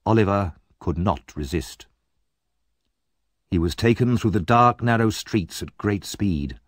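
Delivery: ordinary delivery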